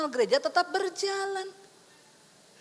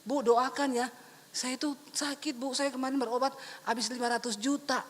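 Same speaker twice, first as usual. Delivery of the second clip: mock whine, softer and lower; whining sick man; 4 semitones lower, 6 dB quieter than usual. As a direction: play a self-pitying miser asking for prayer. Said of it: "orang-orang yang pelit ini".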